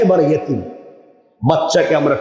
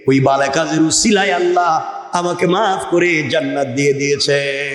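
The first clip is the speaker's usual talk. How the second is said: measured preacher's cadence on a level note; rhythmic waz storytelling; intoned sermon dialogue. Acted. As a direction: recite the exchange, drawing out the ending.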